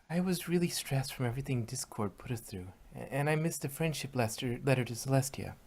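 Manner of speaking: sheepish quiet confession to friends; embarrassed confession. Acted. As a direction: murmur it, ashamed to tell. Embarrassed confession of past breakdown.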